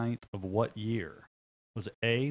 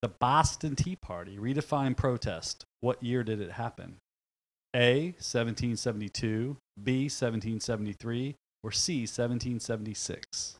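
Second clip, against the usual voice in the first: put-on Boston accent. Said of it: "the bad Boston accent".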